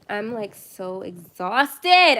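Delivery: loud, very slow, drawn-out groaning yell; exhausted yell. Real, not acted. Streamer to late-night viewers, exhausted drawn-out yell. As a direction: stretch it out and yell how tired you are. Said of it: "I'm sorry for yelling".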